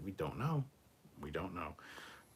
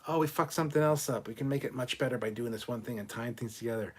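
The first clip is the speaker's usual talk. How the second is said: higher, louder hammed-up team voice; mock eager realization; 4 semitones higher, 5 dB louder than usual. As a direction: pretend you just found the fix. Mock quote of the Discovery team.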